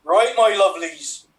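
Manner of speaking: light West Country accent, hammed up; mock Somerset farmer accent. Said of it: "continue with a West Country accent".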